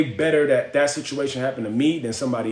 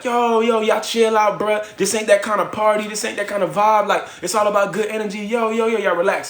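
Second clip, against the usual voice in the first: friend hyping on mic; 5 semitones higher than usual. Retold or imitated. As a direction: play the friend on stage telling everyone to chill. Friend on mic calming the crowd.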